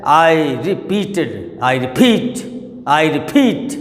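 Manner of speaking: "repeat" with a quick re and drawn-out, strong PEAT; stress on PEAT. Shown as a demonstration. Teacher showing where stress falls, "repeat" stressed on PEAT. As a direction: lean hard on the second syllable of "repeat". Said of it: "stress किस पर आ रहा?".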